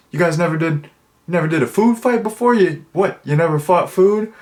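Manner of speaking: high, fast disbelief; can't believe they never did; incredulous. Retold or imitated. Coach baffled at students.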